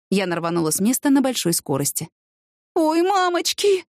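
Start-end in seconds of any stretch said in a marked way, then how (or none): 2.7-3.9 high, drawn-out startled cry; alarmed gasp. A narrator's reading. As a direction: yelp in alarm, stretching the words. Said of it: "ахнула Клава". (испуганно ахнуть, высоко и протяжно)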